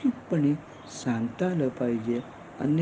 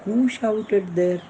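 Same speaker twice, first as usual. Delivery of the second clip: very slow and higher; slow model question; 6 semitones higher, much slower than usual. Shown as a demonstration. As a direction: model it slowly for beginners. Teacher models English question. (शिक्षक प्रश्न शिकवतो, अतिशय हळू)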